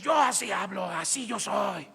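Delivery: voz forzada de quien dice que no grita; grito defensivo imitado. Acted. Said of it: "ya no grites". (grito fingido, a la defensiva)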